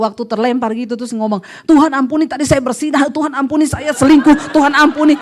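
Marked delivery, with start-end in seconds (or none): 1.6-5.1 louder hurried pleading; mock frantic prayer. Preacher mocks a sinner praying mid-crash, loud and frantic. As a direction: gabble a panicked plea for mercy.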